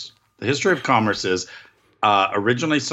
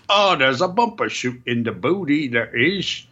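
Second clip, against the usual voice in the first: mock British lady, pitched up; imitated British accent; 3 semitones higher, slower than usual. Podcaster quoting a British lady host, mock British accent. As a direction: imitate her with a fake British lilt. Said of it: "do a fake British accent".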